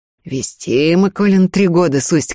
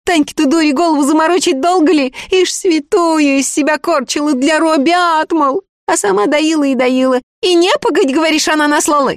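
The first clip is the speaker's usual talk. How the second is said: put-on a much higher, anxious young woman's voice; pleading village girl; 12 semitones higher, 3 dB louder than usual. A narrator's reading. The girl begs the sorcerer for a spell, anxious pleading.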